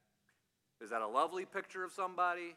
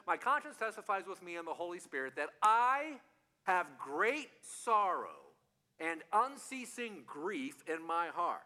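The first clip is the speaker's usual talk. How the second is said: grave scripture reading; 2 semitones higher, 3 dB louder than usual. Acted. Reading Paul's lament aloud.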